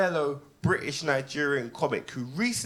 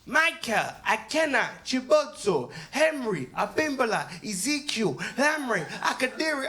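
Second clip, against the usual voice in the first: higher, deliberate name-by-name reading; flawless formal roll call; 5 semitones higher than usual. Retold or imitated. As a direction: read each name proudly like a chancellor. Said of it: "without missing a beat".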